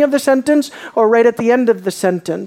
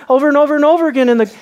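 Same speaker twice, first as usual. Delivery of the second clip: rushed emphasis; 4 semitones higher, much faster than usual. Real, not acted. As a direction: tumble through the repetition. Preacher pressing his repeated point.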